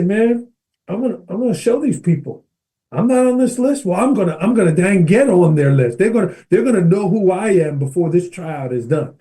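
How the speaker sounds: heated, pushed-up determination; fired-up resolve. Retold or imitated. In the mirror, swearing to show the evaluators, heated and defiant. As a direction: vow to prove them wrong. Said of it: "now I'm getting heated".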